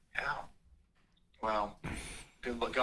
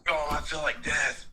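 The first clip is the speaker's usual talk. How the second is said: rough, sick-sounding voice; 2 semitones higher than usual. Real, not acted. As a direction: speak like you feel terrible. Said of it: "You sound rough".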